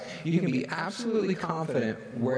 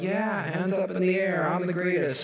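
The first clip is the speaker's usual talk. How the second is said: mock gloating, hands in the air; boastful cheering; 6 semitones higher than usual. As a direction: crow like you just hit a homer. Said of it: "then we're like".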